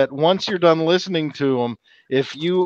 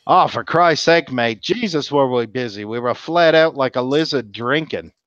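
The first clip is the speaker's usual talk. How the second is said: lightly done broad Aussie bloke; a hint of an outback Australian accent; retelling an Aussie's saying in a mild Australian accent; thick Australian accent. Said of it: "that's a real thick Australian".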